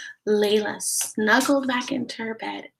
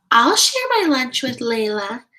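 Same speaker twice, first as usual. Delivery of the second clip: louder, higher, keen classmate; eager offer; 4 semitones higher, 6 dB louder than usual. Acted. Samantha offering lunch to Layla, eager. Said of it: "Samantha volunteered".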